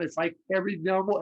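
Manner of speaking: normal talking voice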